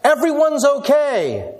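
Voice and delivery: high, loud, drawn-out call across the water; yelling out. Acted. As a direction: holler it to someone far off. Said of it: "he yells out and he says".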